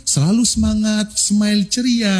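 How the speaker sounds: high rallying call and chant; energetic yel-yel. Shown as a demonstration. Trainer demonstrating a yel-yel for presenters, high chant. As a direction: fire up the room, call and answer. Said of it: "Contoh misalkan".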